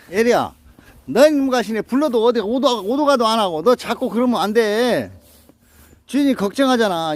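high, loud telling-off of the dog; loud scolding. Real, not acted. Owner scolds the dog Yeri for wandering off, loud and high. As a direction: scold her for not coming when called.

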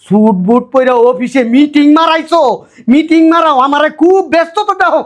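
indignant, rising-pitched scolding; angry taunt. Acted. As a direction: taunt him angrily for putting on airs. Taunting the son-in-law about posing. (রাগে খোঁটা দিয়ে বলা)

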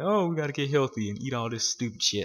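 mild mock impression of preachy vegans; mocking roommates. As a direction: parrot the housemates with mild scorn. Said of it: "They all like".

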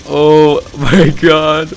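slow drawn-out laughing oh my god; laughing disbelief. Real, not acted. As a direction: laugh through the words.

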